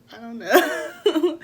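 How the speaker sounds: high, loud, slow fake sob; hammed-up whiny cry breaking into a laugh; mock wailing. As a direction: draw it out like a crybaby. Exaggerated tearful answer to mom.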